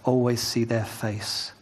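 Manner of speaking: measured, even Bible reading aloud; unhurried reading with light weight on key phrases; scripture reading. Acted. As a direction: read the passage evenly to a congregation. Reads scripture aloud to congregation.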